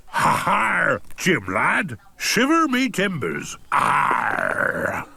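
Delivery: lightly voiced pirate; a hint of a jolly pirate. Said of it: "talk like a pirate".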